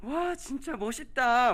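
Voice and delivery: high, bright kindergarten-teacher voice. Showing the tone used to talk with kindergarten children: high-pitched tone. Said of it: "유치부 아이들이랑 소통하려면 기본적인 그 톤이 높아야 돼요 ... 막 이렇게".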